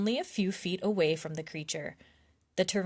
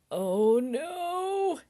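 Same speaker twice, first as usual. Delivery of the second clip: alarmed; 9 semitones higher, 3 dB louder than usual. Acted. Alarmed as she reaches out.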